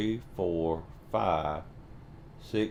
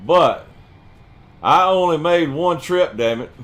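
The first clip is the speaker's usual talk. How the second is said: higher, louder exasperated cry; frustrated outburst; 9 semitones higher, 10 dB louder than usual. Real, not acted. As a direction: shout it out in frustration. Frustrated outburst over logs.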